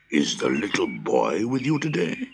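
giant voice, question climbing at the end; hopeful giant. A narrator's reading. Giant asking the children after the boy, hopeful.

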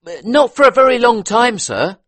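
butler voice. A narrator's reading. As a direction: answer politely as a servant. Butler answers.

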